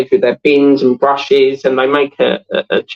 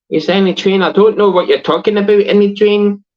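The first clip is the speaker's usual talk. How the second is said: higher, quick incredulous repeat; baffled; 7 semitones higher than usual. Real, not acted. Streamer puzzling over a chat message, bewildered. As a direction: echo it in high, bewildered protest.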